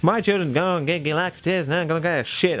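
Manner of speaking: lightly put-on American accent mocking the mother; British speaker slipping into a mild American accent; a hint of an American mom's defiant voice. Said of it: "why I'm doing an American accent".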